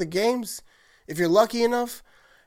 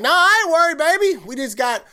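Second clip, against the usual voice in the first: brash and loud at first, much higher, then settling; cocky fan; 6 semitones higher, 4 dB louder than usual. Pretend. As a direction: brush off the doubters with swagger. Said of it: "that's how I present myself".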